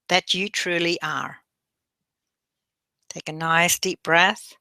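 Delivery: measured meditation guide with long pauses; guided meditation. Acted. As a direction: guide them gently through breathing and affirmations.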